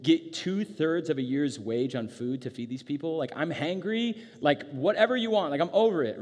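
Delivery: loud sarcastic griping, rising in pitch; hammed-up fed-up sarcasm, building. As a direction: scoff like a hangry follower who is over it. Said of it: "we should definitely hear this sarcastically".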